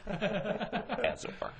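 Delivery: very slow high mock-professor; drawn-out pompous tag; egghead dad. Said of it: "Dad's like".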